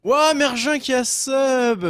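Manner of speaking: drawn-out excited shout-out. Real, not acted. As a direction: stretch it out, thrilled. Streamer thanking new subscriber.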